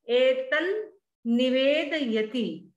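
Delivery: एतन निवेदयति with the n held across the join; double n split. Shown as a demonstration. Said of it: "उसमें से एक ना इधर बोलेंगे". (एतन्निवेदयति में न दोनों ओर)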